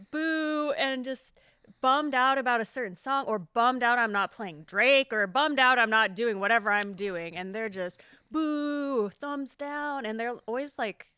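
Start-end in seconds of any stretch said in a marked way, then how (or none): 0.1-0.7 drawn-out, higher mock boo; pouty heckler's long boo; pouting boo. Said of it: "I'll get these people pouting". 8.3-10.1 higher, drawn-out mock booing; pouty thumbs-down heckle; pouting boo. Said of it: "I'll get these people pouting".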